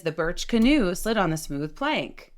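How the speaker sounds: "smooth" up, "plank" down; practice sentence. Shown as a demonstration. Coach reading a Harvard sentence for practice, rise then fall. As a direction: lift the second to last syllable, drop the last. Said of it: "Penultimate syllable up, final syllable down".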